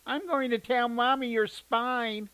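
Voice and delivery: high, slow tattling whine; whiny little sister. A narrator's reading. Little sister whining at her brother for spying. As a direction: drag it out like a bratty kid. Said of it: "his sister whined".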